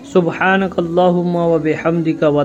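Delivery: measured Arabic recitation, dropping at the close; prayer recitation. Shown as a demonstration. Teacher showing viewers how to read Sana, measured recitation. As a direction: recite the opening praise as a model. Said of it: "किस तरीके से पढ़ना है वो भी बता दे रहा हूँ".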